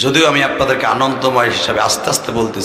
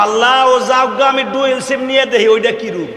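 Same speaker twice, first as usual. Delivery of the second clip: mock prayer; 11 semitones higher than usual. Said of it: "খালি কবা".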